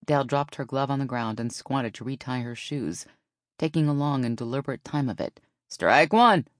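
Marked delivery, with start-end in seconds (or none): 5.7-6.5 loud strike call, swooping up; umpire's announcement. A narrator's reading. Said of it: "Phyllis announced".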